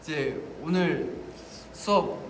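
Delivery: giggly mock wonder, rising; laughing kid quote. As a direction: laugh through the question. Retold kid snacking before class.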